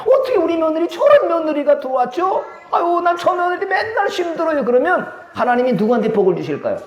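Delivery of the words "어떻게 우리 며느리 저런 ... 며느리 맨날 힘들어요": high-pitched mock lament; upset complaining. Churchgoer complains to God about daughter-in-law, high upset whine. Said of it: "며느리 때문에 속상해서 나왔어요".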